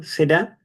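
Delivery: "Será" stressed on the final A; acento en la A. Shown as a demonstration. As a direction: put the accent on the last syllable of "Será". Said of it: "con acento en la A". ("Será", con el acento en la A final)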